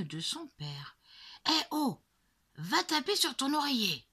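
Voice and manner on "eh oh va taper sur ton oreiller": louder, raised dad's command; stern order. A narrator's reading. Father telling his hitting daughter to stop, stern and loud. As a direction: bark the order at the child. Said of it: "lui ordonne papa".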